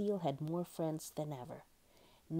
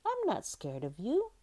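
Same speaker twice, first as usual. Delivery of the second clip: higher little seal voice, gently shy; shy smile; 6 semitones higher, 3 dB louder than usual. A narrator's reading. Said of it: "smiling shyly".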